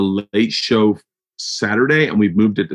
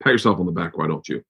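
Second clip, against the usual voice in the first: self-mocking; 4 semitones lower, 5 dB quieter, faster than usual. Real, not acted. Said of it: "Jesus Christ, Bert".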